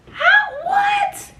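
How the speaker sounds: high yelp of shock; high shocked shout. Retold or imitated. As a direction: blurt it in disbelief. Shocked at the accusation.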